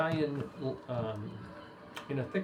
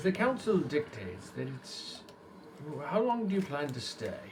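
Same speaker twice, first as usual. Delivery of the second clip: stern guard; 5 dB quieter than usual. Acted. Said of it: "He says".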